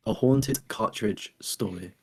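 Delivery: slow, half-hearted Scottish copy; copied Scottish accent. Shown as a demonstration. Host copying Scottish co-host's phrase, tentative Scottish accent. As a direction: repeat it carefully, lightly copying a Scottish accent. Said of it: "your story was what changed".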